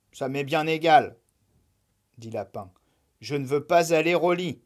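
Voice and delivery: stubborn bunny refusal; sulky rabbit. Acted. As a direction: brush it off impatiently. Lapin refuses again.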